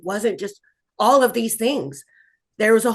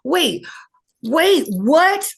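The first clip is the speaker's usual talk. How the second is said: high, louder disbelieving wait; sudden realization; 6 semitones higher, 5 dB louder, much slower than usual. Real, not acted. Survivor realizing the risks, high loud wait what. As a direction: catch yourself in disbelief.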